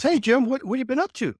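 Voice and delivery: high, loud retold hello; imitated hearty greeting. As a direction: call out a greeting, pitched well up. Retold foreman's cheerful greeting.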